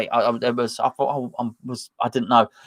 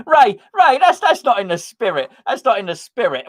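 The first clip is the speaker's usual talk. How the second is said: mock reproach; 9 semitones higher, 3 dB louder than usual. Real, not acted. Teasing chat reader.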